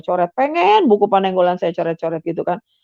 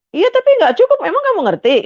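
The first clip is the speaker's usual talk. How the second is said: sharply raised, louder retort; indignant husband; 13 semitones higher, 4 dB louder than usual. Retold or imitated. Husband scolds wife about her baptism, high and indignant. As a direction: cut her down, she doesn't understand it.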